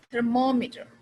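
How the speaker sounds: "thermometer" with MO punched; emphatic second syllable in "thermometer"; stress on MO. Shown as a demonstration. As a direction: hit the MO in "thermometer", then fall away.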